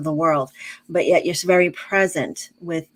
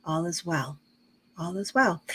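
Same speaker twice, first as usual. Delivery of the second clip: calm self-reassurance; 5 dB quieter than usual. Shown as a demonstration. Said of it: "talk to yourself and say".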